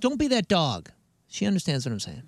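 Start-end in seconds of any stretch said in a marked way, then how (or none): 0.0-0.9 higher mock scolding of a dog; bark shaming. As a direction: shame the dog, pitched up. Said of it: "little, little, little bark shame".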